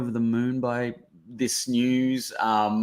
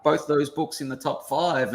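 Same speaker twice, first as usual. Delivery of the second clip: excited mum; 6 semitones higher, 4 dB louder than usual. Retold or imitated. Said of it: "she's like".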